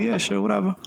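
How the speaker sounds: high, offhand "sure, whatever"; dismissive. Retold or imitated. Brushing off the officer.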